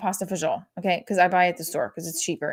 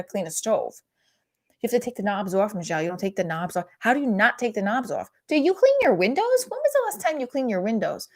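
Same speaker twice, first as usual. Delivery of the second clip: imitating her mom. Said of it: "She'll be like".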